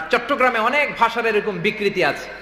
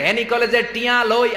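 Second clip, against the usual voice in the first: mock Noakhali slogan; 4 semitones higher than usual. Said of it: "মিছিল দেয়".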